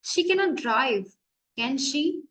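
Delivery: "can she" lifted as a genuine question; doubtful question, "can she" rising slightly; rising intonation. Shown as a demonstration. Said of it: "It is a genuine question or doubt".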